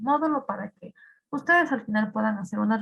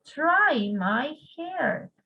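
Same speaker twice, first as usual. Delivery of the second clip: slow drill again; 3 semitones higher, much slower than usual. Shown as a demonstration. Teacher repeating the phrase slowly for students. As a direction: repeat "Try my hair" slowly for the class. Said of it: "¿Qué creen ustedes que significa try my hair?".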